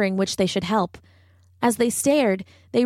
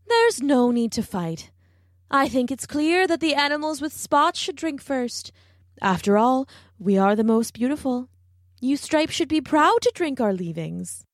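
vain giraffe; 4 semitones higher than usual. Acted. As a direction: talk down to them sweetly.

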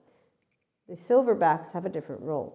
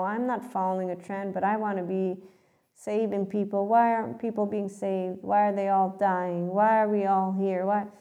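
mock spiritual seeker; 3 semitones higher than usual. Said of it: "when people are in this mode".

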